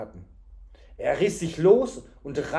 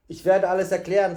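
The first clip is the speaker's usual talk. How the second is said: exasperated; 4 semitones higher, 7 dB louder than usual. A narrator's reading. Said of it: "sagte Tjuri zum dritten Mal".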